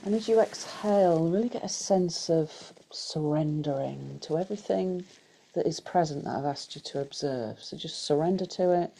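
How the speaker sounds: unhurried guided meditation voice, long pauses. Acted. Teacher guiding a group through breath and body scan, guided meditation. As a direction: lead them gently through breath and body, leaving space.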